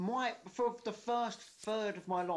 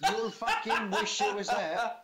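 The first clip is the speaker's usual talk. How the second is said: laughing; 5 semitones higher, 6 dB louder, slower than usual. Real, not acted. Laughing mock outrage.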